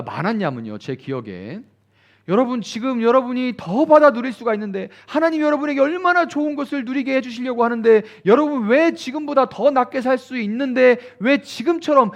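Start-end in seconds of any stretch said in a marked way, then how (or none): 2.3-12.1 high, loud pleading revival-preacher voice; mock emotional revival sermon, rising to a cry; revival preacher's plea. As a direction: imitate a preacher working the crowd to tears. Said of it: "막 이렇게".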